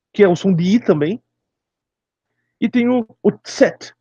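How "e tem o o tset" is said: slow "tset" for Z; name Z the German way, "tset". Shown as a demonstration. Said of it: "Não existe o Z. É tset".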